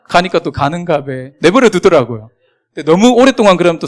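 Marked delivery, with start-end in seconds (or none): 0.5-1.3 offhand Gyeongsang dialect imitation. Locals leaving a newcomer be, offhand Gyeongsang dialect. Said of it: "경상도 사투리로".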